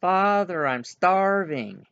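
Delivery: a high, drawn-out plea from below; young man crying out. Acted. Son pleading to his father from the basement, slow cry. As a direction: call up from under the floor, slow and pleading. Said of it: "a young man's voice cry out".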